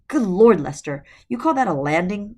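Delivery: put-on loud scolding old woman; reprimanding. A narrator's reading. Mother Goose scolding her goose after a hard landing, loud. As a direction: tell the goose off for a bad landing. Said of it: "Mother Goose reprimanded".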